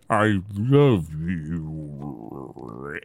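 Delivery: very slow, low, creepy dying doll. Retold or imitated. Krusty doll dying after being dug up, creepy drawn-out voice. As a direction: drag it out like a doll winding down. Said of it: "dying, it sounds horrifying".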